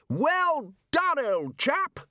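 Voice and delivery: Ridcully shouting to the librarian across the water. Acted. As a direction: call out across the sea in praise. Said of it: "shouted Ridcully across the water".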